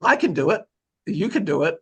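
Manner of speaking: a bad Scottish brogue for laughs; Scottish accent. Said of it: "the worst Scottish accent I've ever heard".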